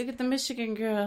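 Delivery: put-on Southern accent. Locals gossiping about the Michigan girl, mock Southern accent. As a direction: imitate Southern locals spotting an outsider. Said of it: "Talk like this".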